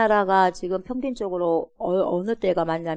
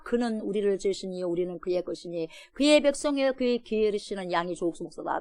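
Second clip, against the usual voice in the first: normal talking voice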